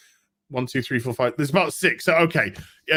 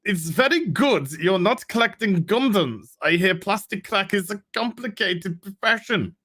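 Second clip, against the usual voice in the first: Werner Herzog voice; 3 semitones higher than usual. Pretend. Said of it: "In a Werner, uh, Herzog voice through gritted teeth".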